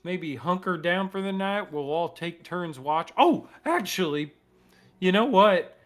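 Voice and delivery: lightly voiced friendly captive; NPC voice. GM voices NPC answering Chip.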